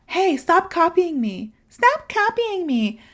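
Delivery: put-on whiny kid protest. Child telling a copying cousin to stop, whining. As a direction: complain like a fed-up child. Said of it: "And you're like".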